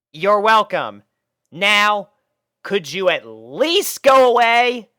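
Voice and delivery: high, loud, slow annoyed request; exasperated Rainbow. A narrator's reading. Rainbow asking the puppies to leave, exasperated. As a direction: shoo them off, irritated.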